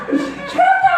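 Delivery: squeaky high hush through laughter; laughing hush. Retold or imitated. Crowd hushing Bartimaeus, squealed high through laughter. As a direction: shush him while cracking up.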